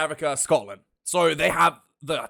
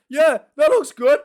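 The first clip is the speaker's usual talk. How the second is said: mock designer; 8 semitones higher, 6 dB louder than usual. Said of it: "they just like".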